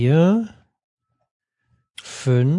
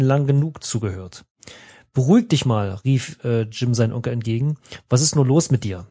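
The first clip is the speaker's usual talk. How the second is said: steady storyteller reading with voiced characters; story narration. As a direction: read the adventure like an audiobook. Reads adventure text aloud. (Vorleseton einer Erzählung)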